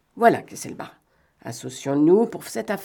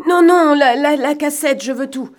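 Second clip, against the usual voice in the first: high, loud outburst of refusal; excited, high-pitched insistence that eases in volume; urgent demand; 9 semitones higher, 7 dB louder than usual. Acted. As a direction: cut in urgently, stumbling over the words.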